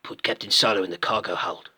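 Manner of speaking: bounty hunter with a put-on New Zealand accent; rough go at a New Zealand accent; Boba Fett, New Zealand accent. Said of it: "his accent probably would have changed".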